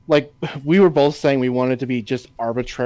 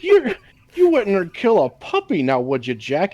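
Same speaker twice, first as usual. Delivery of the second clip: higher coaxing mock voice; sing-song plea, pitched up; quoting a movie character; 4 semitones higher than usual. Co-host quoting the puppy scene, lightly higher. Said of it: "quoting the movie scene".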